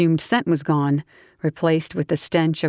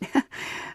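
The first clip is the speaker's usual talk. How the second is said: scoffing laugh; 8 dB quieter than usual. Acted. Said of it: "She scoffed".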